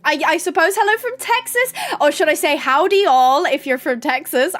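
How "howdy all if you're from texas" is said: attempted Texan howdy in an American accent; hammy American accent; bad American accent. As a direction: have a poor go at an American accent. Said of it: "my American accent, accent is actually quite atrocious".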